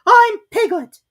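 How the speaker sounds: very high, loud, slow squeaky protest. A narrator's reading. Piglet to Kanga, loudly denying he is Roo. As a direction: insist loudly, stretching it out. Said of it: "said Piglet loudly".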